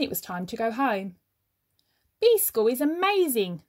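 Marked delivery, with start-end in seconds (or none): 2.2-3.6 excited thought. Acted. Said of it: "thought Norman".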